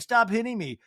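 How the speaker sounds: lightly voiced pestered child; bullied kid. Bullied kid protesting to the bully, mock whine. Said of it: "when you used to get bullied by a kid".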